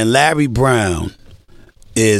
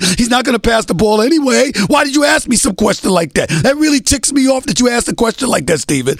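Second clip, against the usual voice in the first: retold coach's rant, the voice climbing much higher as it builds; exasperated tirade; 9 semitones higher than usual. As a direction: imitate a coach ranting in disbelief, pushing higher and higher. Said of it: "he goes into this tirade".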